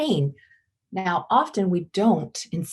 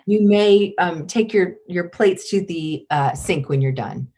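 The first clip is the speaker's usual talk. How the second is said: calm command. Shown as a demonstration.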